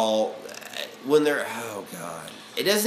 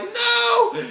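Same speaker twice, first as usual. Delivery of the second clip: flat refusal; 4 dB louder than usual. Retold or imitated. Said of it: "and I'm like".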